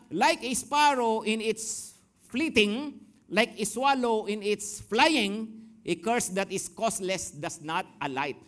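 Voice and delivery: slow English verse read; scripture reading. Acted. Preacher reads the English Proverbs verse to the church, slow. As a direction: lay out each line of the proverb slowly.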